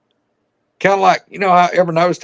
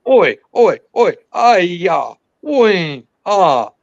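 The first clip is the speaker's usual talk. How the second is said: loud rapid chattering syllables "oi, oi"; imitated creature language; 3 dB louder, much slower than usual. Hunter imitating the two creatures' heated talk. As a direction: mimic an unknown creature arguing. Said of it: "I'll even try to imitate it here".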